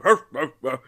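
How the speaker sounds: comic grumbling huffs; mock huffing. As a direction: imitate someone stomping off in a huff. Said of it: "walking down in a huff".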